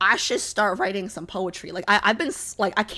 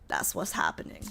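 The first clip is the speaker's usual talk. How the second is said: soft whispered aside; 9 dB quieter than usual. Real, not acted. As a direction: whisper it to yourself. Aside about being sick.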